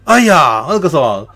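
one-up her rival; smug rival wife. Retold or imitated. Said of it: "他说". (模仿政子得意地抢着说)

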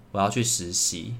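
soft, half-asleep mumble; mumbling to herself. Retold or imitated. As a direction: murmur it barely awake. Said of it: "口中喃喃自语说". (半梦半醒地喃喃自语)

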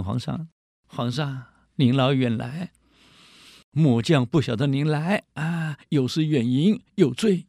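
bow and scrape to the emperor; fawning officer. Retold or imitated. Commander grovels to emperor.

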